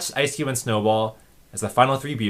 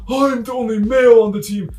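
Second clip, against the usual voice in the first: menacing character voice; 11 semitones higher, 9 dB louder than usual. Retold or imitated. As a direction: threaten in a squeaky cartoon voice. Snowball voiced.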